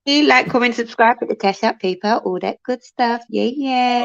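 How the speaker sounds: smooth, silky plug to the viewers. Real, not acted. Asking viewers to like and subscribe, silky voice. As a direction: say it extra silky. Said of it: "you're doing extra silky voice".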